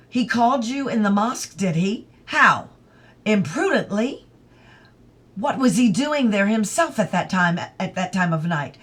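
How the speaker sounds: a hint of a scratchy, dictatorial questioning. Ronnie questioning his mother, mildly dictatorial. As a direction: grill her sharply. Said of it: "Scratchy and dictatorial".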